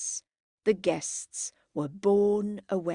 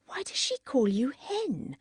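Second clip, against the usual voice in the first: higher, guileless question; innocent; 6 semitones higher than usual. A narrator's reading. Margaret asks Henry about his nickname, innocently. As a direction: ask it lightly, suspecting nothing. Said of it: "said Margaret innocently".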